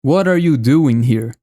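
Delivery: very slow, careful What are you doing here; slow practice. Shown as a demonstration. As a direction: drill the line at half speed. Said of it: "Nunca lemos o som do G no final". (repetição lenta para praticar)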